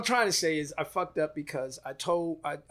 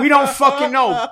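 louder, pitched up, slow, every word hit; emphatic punchline; 8 semitones higher, 10 dB louder than usual. Real, not acted. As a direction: spell it out slowly and loud.

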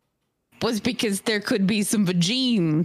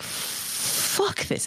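whispered; 12 semitones higher, 6 dB quieter than usual. Retold or imitated. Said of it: "I'm like".

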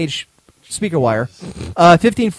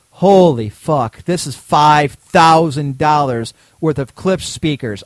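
inner astonishment; 4 dB louder, much slower than usual. Retold or imitated. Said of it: "In my head, I'm thinking".

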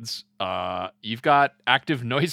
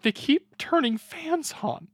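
mock alien complaint; 11 semitones higher, slower than usual. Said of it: "they're like".

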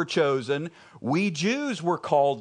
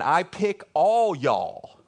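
God's voice; 2 semitones higher, slower than usual. Retold or imitated. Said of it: "He's saying".

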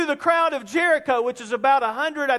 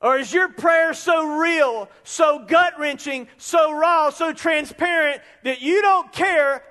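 impassioned; 4 semitones higher than usual. Real, not acted. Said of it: "impassioned climax of sermon".

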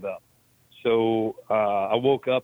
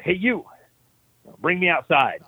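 high, louder summons, acted out; retold bossy shout; 6 semitones higher, 4 dB louder than usual. Patient ordering hospital staff to take him out, retold bossy shout. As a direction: call someone over imperiously, pitched up.

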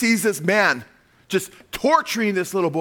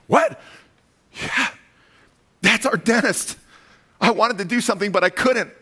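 indignant father; 4 semitones higher than usual. Retold or imitated. Father explains, voiced by preacher.

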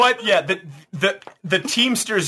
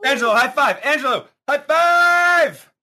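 calling out; 10 semitones higher than usual. Acted. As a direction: shout it across the room. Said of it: "repeated louder".

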